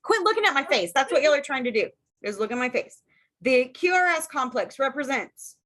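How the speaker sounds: muffled behind a covered mouth; hand over mouth. Real, not acted. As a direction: talk through your hand over your mouth. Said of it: "'cause my mouth is covered".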